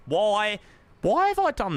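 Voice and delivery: loud, high exasperated cry of why; frustrated outburst at himself. Real, not acted. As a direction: groan at yourself for messing up again. Annoyed at own repeated mistake.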